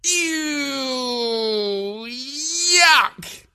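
put-on high, squealing child voice; disgusted children; kids' disgust. A narrator's reading. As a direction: kids recoiling from food. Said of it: "described as".

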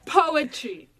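slow, drawn-out big reveal; dramatic reveal. Real, not acted. Host reveals the topic to her co-host, slow and dramatic. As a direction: announce it slowly, pausing for suspense.

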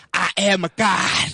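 megalomaniac rant. Pretend. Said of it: "That's what I feel like right now".

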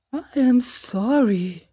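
a hint of a polite owl doctor, slow; lightly voiced owl. A narrator's reading. Owl doctor politely objects to the crow, lightly voiced. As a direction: apologize with mild formality.

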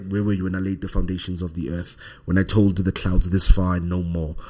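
lightly voiced God, low and reverent; deep God voice. God addressing the man from the clouds, deep voice. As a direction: let the scripture roll out low and solemn. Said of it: "deep, deep voice with reverence".

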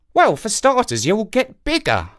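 high crow voice; knowing old crow. Acted. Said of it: "said the crow".

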